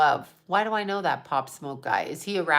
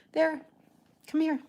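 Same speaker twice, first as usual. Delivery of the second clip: higher sing-song pet talk; cooing to a pet; 8 semitones higher, 4 dB quieter than usual. Real, not acted. Calling her cat over, higher cooing pet voice.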